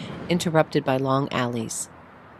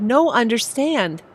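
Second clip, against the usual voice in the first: slow, careful no understand; halting broken English; 8 semitones higher, 4 dB louder, slower than usual. Acted. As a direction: speak slowly, struggling with English. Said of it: "she said".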